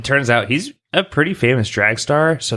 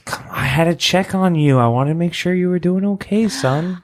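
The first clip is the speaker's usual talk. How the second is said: fussy dad voice; 7 semitones higher than usual. Acted. Dad character higher voice.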